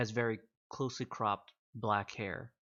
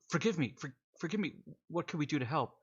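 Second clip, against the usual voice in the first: awed corporal; 5 semitones higher, faster than usual. Acted. Corporal awed before general.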